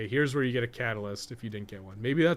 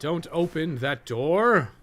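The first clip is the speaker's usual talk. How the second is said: louder, higher, slow urgent warning; shout; 5 semitones higher, 8 dB louder, much slower than usual. Real, not acted. Warning viewers off the poison door, shouted slowly. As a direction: yell it out to stop them in time.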